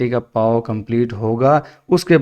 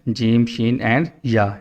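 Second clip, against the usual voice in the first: rushed letters; 2 semitones lower, slower than usual. Shown as a demonstration. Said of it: "ایسے نہیں کرنا".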